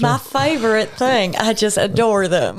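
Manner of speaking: put-on Australian accent, gushing; broad Australian accent, playful and adoring. Co-host shows off her accent skills, mock Australian accent. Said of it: "Australian accent I've ever heard".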